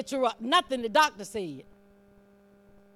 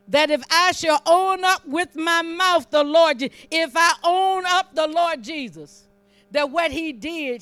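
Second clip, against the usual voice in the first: loud, raised, deliberate scripture preaching; full-force preaching; 5 semitones higher, 7 dB louder than usual. Real, not acted. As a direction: proclaim each phrase loudly, with weight.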